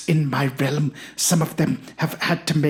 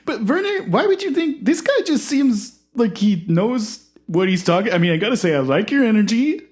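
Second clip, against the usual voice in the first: much higher and louder, welcoming; high eager host voice; 4 semitones higher, 4 dB louder than usual. Acted. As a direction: usher the guest in brightly.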